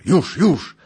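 high, loud exclamation; breathless urgency. A narrator's reading. Rider about to see the manor, urgent. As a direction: cry it out at the peak of suspense.

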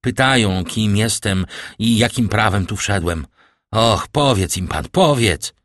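put-on desperate young man pleading with a paralysed father; pleading call. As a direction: beg him to speak up for you. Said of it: "zawołał Morel".

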